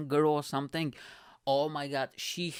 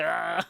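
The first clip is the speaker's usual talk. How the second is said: imitated crowd roar; 3 semitones higher than usual. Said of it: "the guys just lost it".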